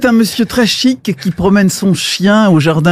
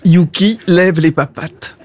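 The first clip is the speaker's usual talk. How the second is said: "Yuki lève les papates" lower and evener; repeated dog command; 4 semitones lower than usual. Acted. Owner to a disobedient dog, lower repeated command.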